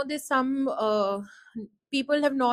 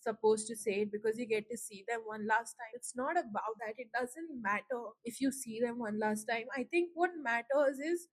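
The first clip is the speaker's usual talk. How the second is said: choked up, softer. Real, not acted. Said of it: "I had to take a few breaks".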